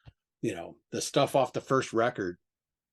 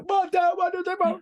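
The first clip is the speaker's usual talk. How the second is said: exasperated disbelief. Retold or imitated.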